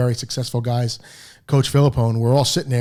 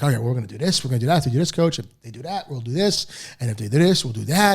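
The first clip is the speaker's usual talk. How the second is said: rattling off answers. Retold or imitated. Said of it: "I'm rattling off answers".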